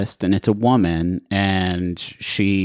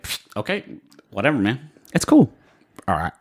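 chewing gum while talking; words round a wad of gum; faster than usual. Acted. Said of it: "does this character have gum in his mouth?".

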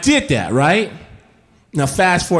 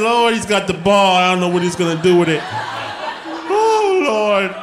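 weary father; 3 semitones higher, faster than usual. Retold or imitated. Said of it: "My father, the poor man".

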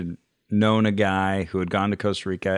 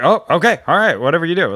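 flustered compliance; 8 semitones higher, 7 dB louder, faster than usual. Retold or imitated. Flustered obeying in retold scene.

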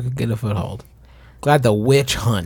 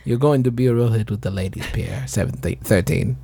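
put-on French accent; 3 semitones lower than usual. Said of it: "your French accent".

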